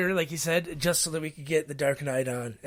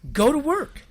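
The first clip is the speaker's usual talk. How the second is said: retold firm order; 11 semitones higher, 4 dB louder than usual.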